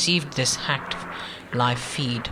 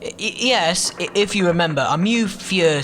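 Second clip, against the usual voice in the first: stammering, pitched up and nervous; 5 semitones higher, 4 dB louder than usual. Acted. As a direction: trip over the first words, anxious.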